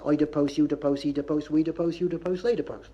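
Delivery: chanted Gloucestershire conjugation; Gloucestershire dialect. Shown as a demonstration. Lecturer shows the Gloucestershire way, rural Gloucestershire recital. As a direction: recite "da post" in Gloucestershire style. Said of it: "if you did it the Gloucestershire way".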